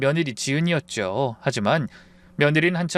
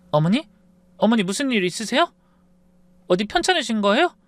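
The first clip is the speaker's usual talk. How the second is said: gentle concern; 8 semitones higher than usual. Acted. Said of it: "하고 다정하게 되묻는데".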